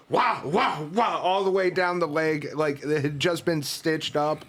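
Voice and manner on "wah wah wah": imitated baton hits. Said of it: "they just went".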